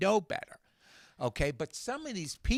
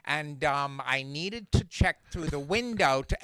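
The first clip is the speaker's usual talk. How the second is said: filler-word demo. Shown as a demonstration. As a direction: lightly imitate kids' filler-heavy talk. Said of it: "It'll go like this".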